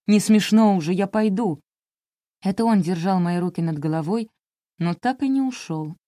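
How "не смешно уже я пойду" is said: louder, frightened cry to back out; scared protest. Acted. Испуганный парень пытается уйти, громко и нервно. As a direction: Sima panics and wants to leave. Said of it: "испуганный голос Симы".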